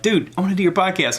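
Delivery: lightly voiced comic asking in; imagined Bert. Imagined Bert Kreischer begging to join, lightly voiced eager. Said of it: "till Bert's like".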